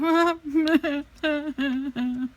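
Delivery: high hammed-up fake sob; a comic bawling sound, not real; mock crying wail. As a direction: do a silly overdone cry-laugh. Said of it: "that's my impression of me crying".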